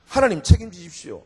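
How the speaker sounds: firm, spoken-out prayer; firm plea to God. Acted. Preacher acts out a cliff-edge plea to God, firmly. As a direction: plead with God to take charge.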